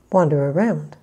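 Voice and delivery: loud demonstration, stretch the stress in "around"; second-word stress. Shown as a demonstration. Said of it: "a little bit louder and just a little bit longer".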